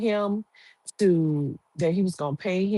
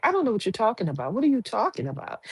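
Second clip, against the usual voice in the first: quicker, higher, insisting she knows nothing; mock feigned innocence; 5 semitones higher, much faster than usual. Woman feigns ignorance to her accomplice, quick rising denial. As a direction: rush the denial, voice climbing. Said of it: "She's like".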